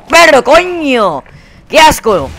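loud, high, drawn-out cursing; exasperated outburst. Real, not acted. Player cursing at a camper, exasperated outburst. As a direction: let frustration burst out, stretching the words.

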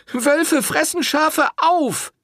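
high, loud furious reproach; angry accusation. A narrator's reading. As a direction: shame him to his face. Woman confronting the priest.

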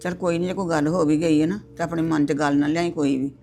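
mother-in-law loudly closing the argument; firm loud mother. Acted. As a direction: tell her to get up and move on. Mother firmly ends the quarrel.

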